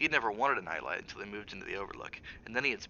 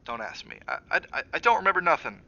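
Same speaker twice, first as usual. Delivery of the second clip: put-on boy's voice building from hushed to loud panic; distraught boy; 4 semitones higher, 6 dB louder than usual. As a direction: start small and break into a frightened cry. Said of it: "he said, distraught".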